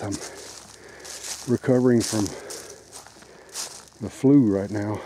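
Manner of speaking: winded, short of breath; catching breath mid-sentence; gasping for air. Real, not acted. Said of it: "I'm a little bit out of breath".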